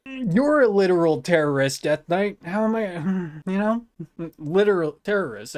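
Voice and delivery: amused outraged retort; incredulous shout. Real, not acted. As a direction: shout back the accusation in disbelief. Mocking chat accusation.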